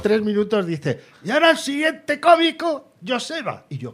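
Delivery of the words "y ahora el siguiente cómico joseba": high, announcer voice calling the next act; hammed-up presenter introducing a comic; mock stage announcer. Presenter announcing the next comic, mock announcer.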